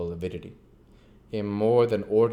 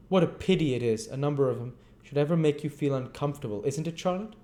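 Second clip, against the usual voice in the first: tipsy Noah; 6 semitones higher, faster than usual. Acted.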